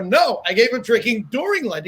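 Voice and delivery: "during" lifted and stretched; stress on during. Retold or imitated. Repeating a correction to his friend, "during" stressed. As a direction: correct them by leaning on "during".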